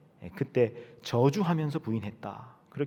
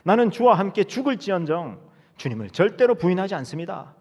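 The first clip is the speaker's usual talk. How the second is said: loud, higher bold boast; shouting a vow; 5 semitones higher, 4 dB louder than usual. Acted. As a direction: bluster it with big certainty. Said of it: "베드로가 또 소리칩니다".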